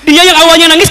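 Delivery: ordinary talk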